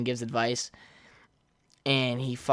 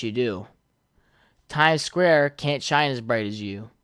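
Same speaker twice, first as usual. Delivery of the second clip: put-on old tone voice; 2 semitones lower than usual. Shown as a demonstration. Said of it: "in my old tone voice".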